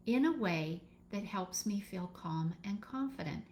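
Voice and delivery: affirmation read calmly. Shown as a demonstration. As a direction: say it like a calm promise. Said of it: "that's my words".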